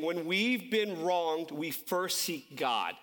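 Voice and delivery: slow, measured key statement; spaced-out words, evenly weighted; key line. Shown as a demonstration. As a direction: deliver it slowly as the main point. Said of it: "I wanna say this one thing".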